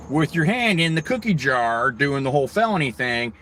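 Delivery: high, slow tattling voice; mimicking a court clerk tattling; mocking gossip. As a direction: sneer like a snitch. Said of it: "some court thing runner".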